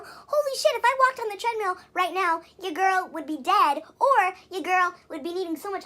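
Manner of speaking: high and loud, disbelieving; incredulous outburst. Real, not acted. Reacting to dad's treadmill idea, loud and incredulous. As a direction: blurt it out, can't believe it. Heated rant about treadmill.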